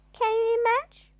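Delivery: high, loud disbelieving question; incredulous. Acted. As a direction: ask it in loud amazement. Narrator's incredulous aside.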